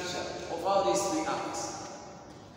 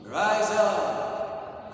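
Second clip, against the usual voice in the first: louder mock divine command; mock movie God; 5 dB louder than usual. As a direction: boom it like a film God. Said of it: "what they showed us in Hollywood".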